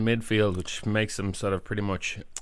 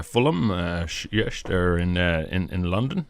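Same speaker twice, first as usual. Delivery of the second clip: put-on Dutch accent; 3 semitones lower than usual. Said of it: "that was my Dutch accent".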